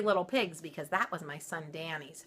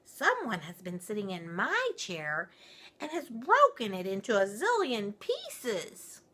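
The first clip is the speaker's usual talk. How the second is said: wee little voice; 5 semitones higher, 3 dB louder than usual. Acted. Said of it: "in his wee little voice".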